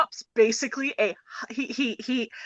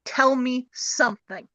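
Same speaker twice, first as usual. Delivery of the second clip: tender line; slower than usual. Retold or imitated. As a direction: say it gently, slowly. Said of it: "and tells her".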